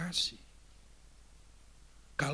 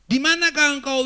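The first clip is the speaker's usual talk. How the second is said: God's call; 11 semitones higher, 14 dB louder than usual. Shown as a demonstration. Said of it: "itu artinya bukan menanyakan suatu lokasi".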